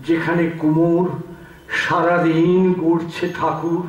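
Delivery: measured poetic recital with long pauses; poem recitation. Acted. Reciter offers a poem by a lately deceased poet, measured recitation.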